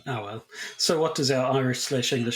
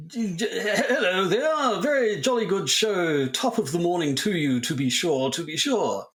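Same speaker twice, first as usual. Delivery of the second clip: higher, hammy fake-posh English with Irish slips; mock Irish-posing-English accent; 5 semitones higher than usual. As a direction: lay on a jolly English accent that slides back into Irish. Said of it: "What's an Irish person trying to sound English sound like anyway?".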